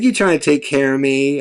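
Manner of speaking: lightly imitated Southern woman; amateur, understated Southern accent. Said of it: "my shitty attempt at a Southern accent".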